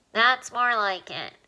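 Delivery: slow, encouraging little alien; encouraging squeaky voice. Acted. Alien encourages Alan after he stops crying, squeaky and kind. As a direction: praise him for stopping. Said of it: "The squeaky voice sounded encouraging".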